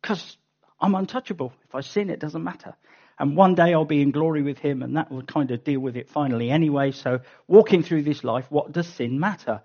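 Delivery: quick, offhand voice of a careless believer; careless sinner. Retold or imitated. Preacher voicing the careless believer's question, quick and offhand. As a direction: shrug it off like nothing matters. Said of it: "that leads to the logical question".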